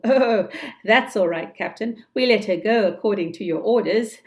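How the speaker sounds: light, amused and brisk; chuckling answer. Acted. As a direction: say it with a cheerful chuckle. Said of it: "Smee answered with a chuckle".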